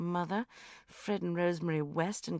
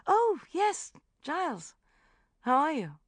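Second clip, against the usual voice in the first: bright greeting; 13 semitones higher, 7 dB louder than usual. A narrator's reading.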